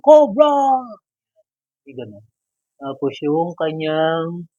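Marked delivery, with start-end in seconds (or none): 0.0-0.5 full high, loud yell of Cobra; the loudest take of the Cobra cry; Cobra battle cry. Retold or imitated. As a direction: scream the name as the troops' war cry. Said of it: "sisigaw yung".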